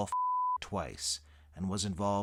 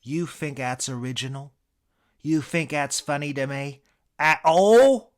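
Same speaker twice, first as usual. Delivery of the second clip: indignant British challenge, building to a yell; angry English accent, climbing louder and higher; Eric Idle; 6 semitones higher, 12 dB louder than usual. Acted. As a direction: confront them, exploding on the last words. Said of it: "sensing the anger in his eyes".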